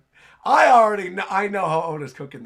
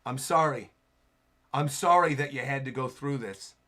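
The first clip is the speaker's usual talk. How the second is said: tender apology; 7 semitones lower, 3 dB quieter than usual. Acted. Acting hero's apology to crying woman.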